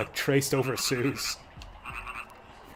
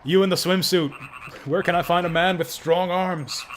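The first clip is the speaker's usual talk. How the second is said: calling out; 5 semitones higher, 4 dB louder than usual. Acted. Voicing NPC calling out.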